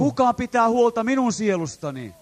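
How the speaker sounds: loud plea of the lost; crying out. Retold or imitated. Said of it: "Tätä he huutavat ja kysyvät".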